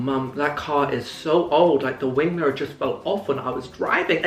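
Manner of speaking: innocent excuse. Retold or imitated. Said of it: "I was like".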